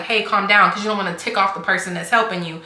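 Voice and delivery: softening, quick word of caution; retold calming. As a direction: retell talking an anxious friend down. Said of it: "I tried to calm her down".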